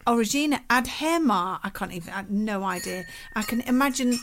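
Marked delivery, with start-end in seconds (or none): 0.1-1.6 mock French reading. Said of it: "French speaking people out there wetting themselves laughing at that".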